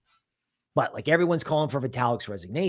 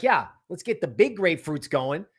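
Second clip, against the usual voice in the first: eager hype; 5 semitones higher than usual. Retold or imitated. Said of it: "The eighteen-year-old's like".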